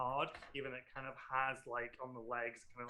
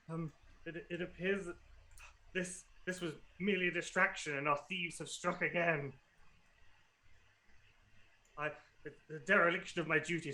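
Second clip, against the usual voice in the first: higher, stammering apologetic official; ashamed stores manager; 4 semitones higher, 5 dB louder than usual. Acted. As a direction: apologise profusely, stuck on repeat like a glitching robot. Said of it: "can't comprehend how ashamed he is".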